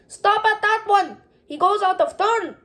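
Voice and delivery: put-on loud high-pitched yell at a boy cutting the line. A narrator's reading. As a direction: shout angrily at him to get back. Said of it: "The woman began yelling".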